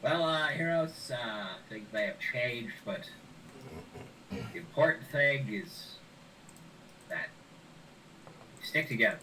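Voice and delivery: nerdy little gnome wizard. Acted. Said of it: "this is my nerdy wizard voice".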